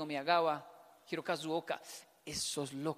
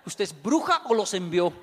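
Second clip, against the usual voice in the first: louder, joking demand; mock accusation; 10 dB louder than usual. Husband jokingly accusing his wife, much louder. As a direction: throw the accusation half in jest.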